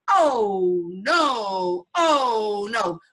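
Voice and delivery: a grumbling grandmother's mock moan; complaining. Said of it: "were complaining".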